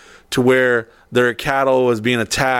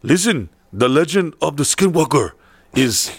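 put-on Native American accent. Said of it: "what did that sound? That sounded pretty dead on".

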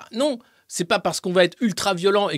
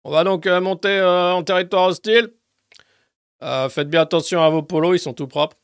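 drill sergeant; 3 dB louder than usual. Pretend. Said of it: "Un sergent instructeur".

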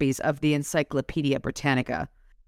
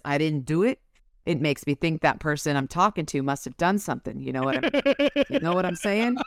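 Harry's line read again. Shown as a demonstration. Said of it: "Morty needs another voice".

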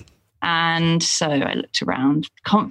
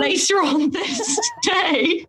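words breaking into laughter; can't get the end out for laughing; laughing through the punchline; 12 semitones higher, slower than usual. Real, not acted. Cracking up telling the story.

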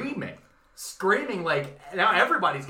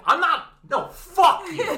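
much higher and louder, cracking up; laughing mock yell; 14 semitones higher, 7 dB louder than usual. Worker screaming at manager Steve, laughing mock yell. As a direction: shriek it through laughter.

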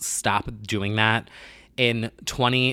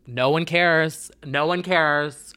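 emphatic; 5 semitones higher, slower than usual. Real, not acted. Exasperated rant at outraged fans.

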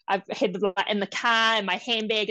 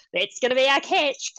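louder, higher worried exclaim; 6 semitones higher, 6 dB louder than usual. Retold or imitated. Mom to herself, anxious exclaim. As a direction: blurt it out in rising panic.

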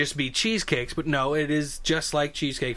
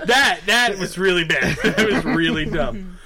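slow, laughing through it; giggling while talking; slower than usual. Real, not acted. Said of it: "laughing after the joke".

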